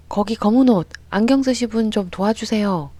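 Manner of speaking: single someone out and call them over; calling for help. A narrator's reading.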